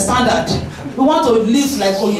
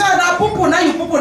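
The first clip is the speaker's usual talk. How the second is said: put-on mildly cooing, pitched up to a baby; indulgent baby talk; 4 semitones higher than usual. Parent to baby who pooed, indulgent and lilting. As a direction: dote lightly on a messy baby. Cooing over the baby's mess.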